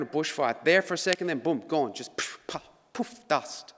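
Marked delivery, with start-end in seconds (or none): 1.9-3.7 unvoiced puffs of vanishing; breathy poof. Shown as a demonstration. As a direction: blow the words away like ash. Mimicking newspaper burning away.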